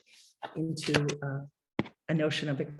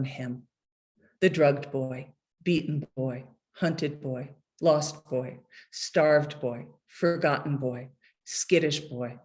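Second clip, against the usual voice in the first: measured, unhurried poetry reading; poem reading; slower than usual. Acted. Poet reading his poem about his dying father to an audience, measured and unhurried. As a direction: read each line like a poet at a podium.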